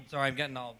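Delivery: a touch choked, breaking off; real, understated upset; getting sad. Real, not acted. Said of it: "I'm getting all sad".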